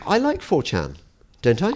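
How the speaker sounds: mock high voice. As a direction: put on a silly high voice. Mocking himself about trusting 4chan.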